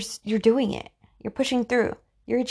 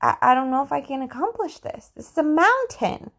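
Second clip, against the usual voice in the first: hesitant start rising to higher-pitched dismay; acted daunted doubt; 3 semitones higher than usual. Climber looking up at the mountain, daunted. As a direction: play a climber mildly overwhelmed.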